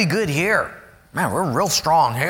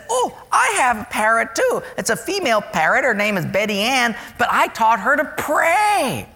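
higher, sweet church lady; proud little old lady; lightly voiced church lady; 5 semitones higher than usual. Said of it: "this lady said".

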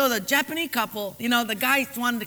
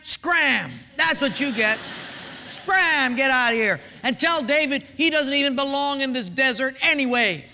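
rude refusal; 3 semitones higher than usual. Acted. Nabal rudely refuses David's men.

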